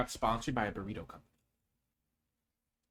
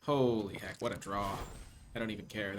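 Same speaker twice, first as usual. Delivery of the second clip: normal talking voice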